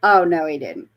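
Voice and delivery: sassy disbelief. Retold or imitated. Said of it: "I'm like".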